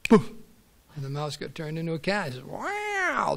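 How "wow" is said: high-pitched jump of wonder; a delighted gasp of wonder; amazed wow. Acted. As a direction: marvel at the new body. Mouse amazed at becoming cat.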